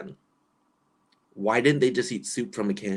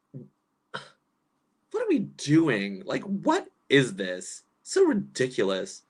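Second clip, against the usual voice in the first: exasperated; much slower than usual. Retold or imitated. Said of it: "I was like".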